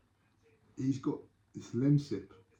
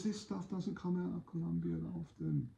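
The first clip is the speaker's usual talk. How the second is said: acted sales pitch; 6 semitones higher, 4 dB quieter than usual.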